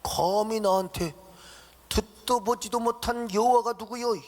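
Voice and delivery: a mocking, scornful king, slowing on 감히 and rising into a half-sung sneer; 듣도 보지도 못한 신을 비웃는 바로; defiant Pharaoh. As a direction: sneer at this unknown god. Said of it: "이 바로가 뭐라고".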